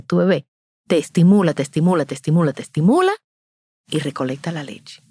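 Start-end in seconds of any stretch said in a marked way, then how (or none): 0.0-3.1 estimula hit on each repeat, faster at the end; repeated rhythmic stress. Shown as a demonstration. Telling mothers how the baby stimulates, rhythmic repeats. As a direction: drive the beat of estimula. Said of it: "Lo mismo hace tu bebé".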